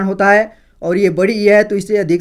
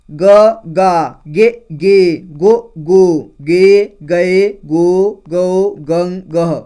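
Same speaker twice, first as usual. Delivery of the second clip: each vowel called out loud and clear, with pauses; loud syllable drill; much slower than usual. Shown as a demonstration. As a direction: recite the vowels slowly for the class. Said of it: "अब ख का देखिए". (ज़ोर से धीरे-धीरे स्वर बोलना)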